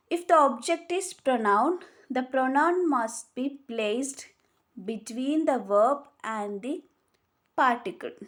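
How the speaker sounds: very slow, word by word, for note-taking; slow dictation. Shown as a demonstration. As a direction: spell the rule out slowly so students can write it. Dictating the rule slowly.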